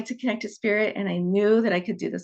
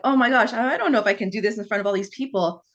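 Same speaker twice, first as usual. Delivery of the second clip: retold panic. Student telling tutor she can't do it, mildly panicked. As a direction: play back a moment of nervous self-doubt. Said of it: "I started to panic".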